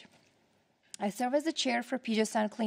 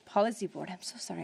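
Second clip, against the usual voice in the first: out of breath. Real, not acted. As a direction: talk while winded. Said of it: "I'm out of breath right now".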